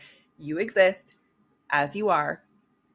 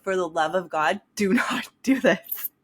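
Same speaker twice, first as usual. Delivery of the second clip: real laughter breaking through the warning; laughing. Real, not acted. Quoting her friend's warning, cracking up with real laughter. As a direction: laugh helplessly while quoting. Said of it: "I'm laughing so hard right now".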